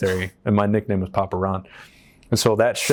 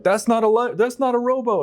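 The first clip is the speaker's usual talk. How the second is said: very high-pitched mock disbelief; imitated incredulous officer; 13 semitones higher than usual. Chief operator disputing rescued rowers' boat, imitated incredulity. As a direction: mimic the officer scoffing, voice way up.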